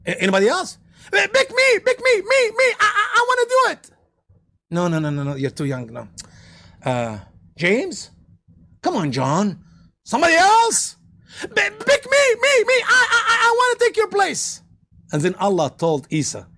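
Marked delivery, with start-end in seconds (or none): 1.1-3.9 high, fast squeaky pleading voice; eager child begging. Retold or imitated. Preacher voicing an eager volunteer begging to be picked, high and squeaky. 11.4-14.6 high, fast squeaky pleading voice; eager child begging. Retold or imitated. Preacher voicing an eager volunteer begging to be picked, high and squeaky.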